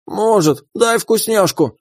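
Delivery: high, slow, begging critter; greedy creature voice. Acted. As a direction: beg cheekily for a treat. Pet begs again.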